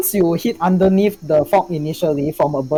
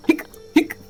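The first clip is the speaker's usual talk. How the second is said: imitated hiccups; 13 semitones higher than usual. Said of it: "You're like".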